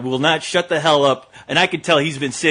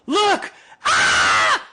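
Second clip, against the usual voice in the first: mock girl scream; 9 semitones lower than usual. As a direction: imitate a gang of girls shrieking. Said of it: "Everyone starts screaming".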